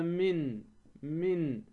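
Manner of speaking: من sounded out separately as an example, starting on closed lips; lips closing on mim. Shown as a demonstration. Teacher showing mim comes from the lips, careful demonstration of من. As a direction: say each من apart, pressing the lips shut for م. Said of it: "تغلق الشفتان".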